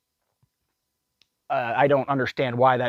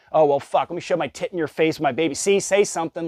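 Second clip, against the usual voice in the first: mocking attention seeker; 4 semitones higher than usual. Continues mocking the mom.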